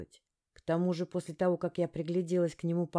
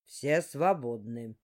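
commanding order; 4 semitones lower, much slower than usual. Acted. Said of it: "приказал он".

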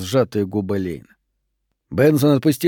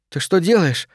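higher, startled cry; scream; 6 semitones higher than usual. A narrator's reading. Lane to Benson grabbing her: startled cry. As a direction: cry out as he grabs you. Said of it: "закричала Лейн".

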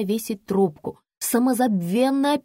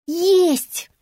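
insistent; 9 semitones higher, 5 dB louder than usual. A narrator's reading. Stubborn repeat in a dispute.

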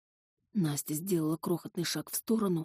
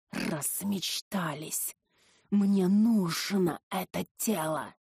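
drawn-out, menacing entity; slow possessing-spirit voice; slow demon voice; slower than usual. Acted. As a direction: claim the body slowly and coldly. Possessing entity answers heroine.

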